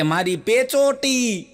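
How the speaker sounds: high, slow, laughing voice; laughing wife. Retold or imitated. Wife tells husband it was her navel, laughing. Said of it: "ઈ કે".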